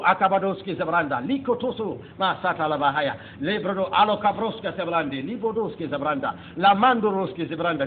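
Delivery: a flowing stream of unknown syllables, half chanted; speaking in tongues. Retold or imitated. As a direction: pour out tongues as if the mouth is being moved for you. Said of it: "I cannot stop the words".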